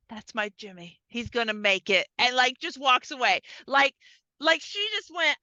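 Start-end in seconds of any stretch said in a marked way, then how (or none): 0.0-2.1 fond sigh. Retold or imitated. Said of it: "she just makes this face of".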